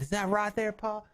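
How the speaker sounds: a hint of a Southern kid; Southern child. The boy asking Pa, light Southern accent. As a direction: ask in a light Southern twang. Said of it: "Southern accent".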